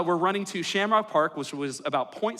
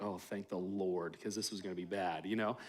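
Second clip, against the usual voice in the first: mock relief; 9 semitones lower, 13 dB quieter than usual. Relieved inner thought, retold.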